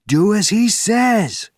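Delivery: high, loud, slow roar. Acted. Benjamin backing Bourne up, roaring. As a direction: roar the command from behind. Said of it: "roared Benjamin's voice".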